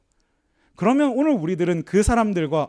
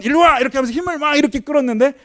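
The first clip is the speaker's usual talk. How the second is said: sharp high shout of command; child's yell; 9 semitones higher, 5 dB louder, faster than usual. Retold or imitated. Little son to stubborn calf, a high loud shout. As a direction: yank the calf over with your voice.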